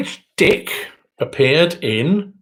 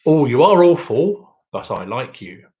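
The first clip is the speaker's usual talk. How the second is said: comedian's catchphrase; 4 dB louder than usual. Acted. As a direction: deliver it as a comedian's well-known line. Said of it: "who was often heard to say".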